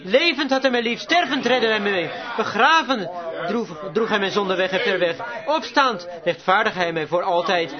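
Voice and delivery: recited verse. Retold or imitated. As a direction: declaim the poem from the pulpit. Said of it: "dat de dichter zei". (plechtig voorgedragen gedicht)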